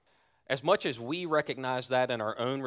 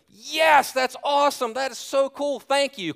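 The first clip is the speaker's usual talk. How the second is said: much higher, louder giddy thrill; overjoyed; 13 semitones higher, 8 dB louder than usual. Retold or imitated. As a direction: squeal with delight at the prize. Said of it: "I go".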